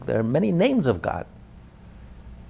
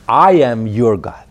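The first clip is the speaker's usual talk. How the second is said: slow and loud, weighing each word; booming divine declaration; 3 semitones lower, 8 dB louder, slower than usual. Acted. Preacher voicing God to his listeners, slow booming proclamation. God's declaration quoted in sermon.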